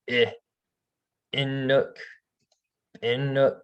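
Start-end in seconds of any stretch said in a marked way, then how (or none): 1.3-3.6 "inuk" begun with a creaky catch on the I; creaky glottal start. Shown as a demonstration. Teacher repeating the creaky glottal start again. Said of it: "kinda creaky".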